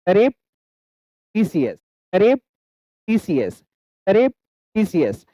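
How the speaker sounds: "surreptitious" very slow, paused after "surrep"; read-along syllable drill. Shown as a demonstration. Teacher leads learners reading along, slow split drill. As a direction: lift "surrep", wait, drop "titious". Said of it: "एक बार मेरे साथ पढ़िए".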